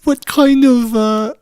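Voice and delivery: high put-on voice sliding toward Scottish; hesitant, wobbly British-Scottish accent; wandering British accent. Stripper character losing hold of her accent, high British-turned-Scottish. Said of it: "what am I, Scottish now".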